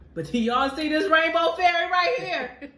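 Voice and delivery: high, loud laughing cry; half laughing, half crying, showing off; laughing through tears. Real, not acted. Laughing while crying, showing rainbow.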